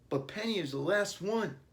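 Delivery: put-on high whiny boy's protest; boy protesting that Penny is the last one; protesting child. A narrator's reading. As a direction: object like a worried kid. Billy protesting.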